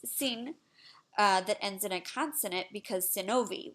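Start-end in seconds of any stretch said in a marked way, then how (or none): 0.1-0.6 "sin" said as Serbian seen; Serbian word. Shown as a demonstration. Teacher shows students the Serbian word for son, Serbian pronunciation. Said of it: "sun, which is". 3.1-3.7 "sinovi" said as Serbian SEE-no-vee; Serbian plural. Shown as a demonstration. Teacher shows students the Serbian word for sons, Serbian pronunciation. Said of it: "which is sons".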